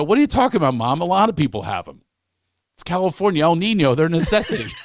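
acting out an incredulous comeback; mock protest. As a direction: insist it's perfectly normal, hammed-up. Acted protest to shocked mother.

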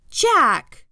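sharp, loud name with falling pitch; exasperated mom, high and loud; scolding call. A narrator's reading. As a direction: cry out the name in reproach. Mom scolds her son.

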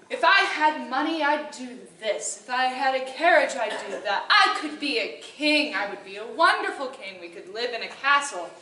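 mild mock whine of big dreams; whining husband. Husband whining to wife about being rich, a touch of whine. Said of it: "he whined incessantly".

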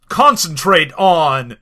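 slow, deliberate read-out; each word weighed, mock-portentous; dice read-out. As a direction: draw it out like a solemn command. Reading out a rolled dice result.

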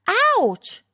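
loud, high yell of pain; sudden high-pitched pained holler; roar of pain. A narrator's reading. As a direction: roar it out, hurt. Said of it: "roared Booba".

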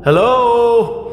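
teasing high-pitched echo; mock high echo. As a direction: toss back a silly high hello.

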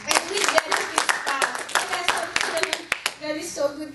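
loud, bursting with thanks; God is so good, loud and glad; joyful praise. Real, not acted. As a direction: proclaim it joyfully. Joyful climax of testimony.

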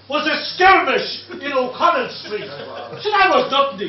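loud and scornful; retold shout. Heckler belittles the Easter Rising, loud scorn. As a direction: dismiss it loudly. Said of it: "the German shouted up to me".

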